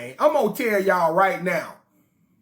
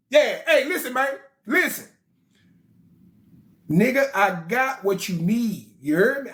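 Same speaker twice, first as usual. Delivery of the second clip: cocky voicemail boast. Acted. Olalu's voicemail demands.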